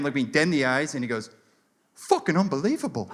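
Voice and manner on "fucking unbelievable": earnest awe, imitating a British tourist; zero irony. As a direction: say it in total sincerity. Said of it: "with literally zero irony in his voice".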